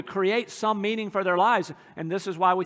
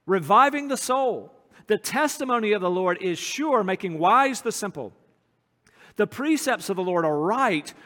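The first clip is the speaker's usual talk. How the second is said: scripture reading. Acted. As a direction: proclaim each line of the psalm. Reads Psalm nineteen aloud.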